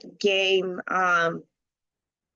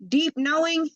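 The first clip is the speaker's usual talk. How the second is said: mock smug; 7 semitones higher than usual. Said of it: "you're like".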